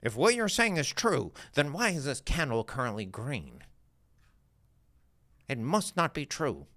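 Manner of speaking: lightly voiced doubting trader; put-on questioner voice. Trader challenging the coach over a green candle, lightly put-on questioner voice. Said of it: "I just did a voice that doesn't sound like me to differentiate".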